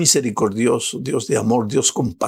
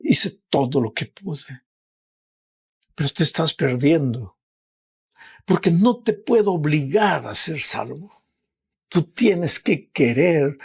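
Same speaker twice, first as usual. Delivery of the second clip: pleading Jesus; 4 semitones higher than usual. Acted. Jesus pleads with the lost son to surrender, rising, urgent. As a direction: beg the son to give in. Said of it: "el Señor Jesús te mira y te pregunta".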